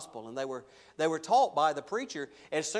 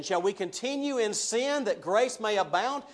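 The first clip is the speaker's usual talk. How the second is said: mock objector; 3 semitones higher than usual. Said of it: "he anticipates them kind of saying this".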